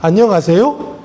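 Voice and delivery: lightly imitated Jeolla intonation; Jeolla accent. Shown as a demonstration. Preacher showing how Jeolla people greet, lightly imitated Jeolla accent. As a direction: standard Korean greeting with a Jeolla lilt. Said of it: "전라도 분들도 이 억양이".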